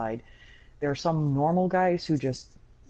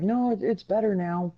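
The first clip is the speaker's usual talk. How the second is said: higher-pitched mimicry of insisting friends; imitated insistence; 6 semitones higher than usual. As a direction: retell their protest in a raised voice. Retold friends insisting game improved.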